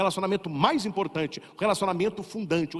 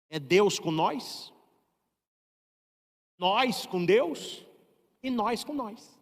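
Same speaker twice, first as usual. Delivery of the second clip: slow and deliberate; 3 semitones higher, much slower than usual. Retold or imitated. Old man defines religion slowly.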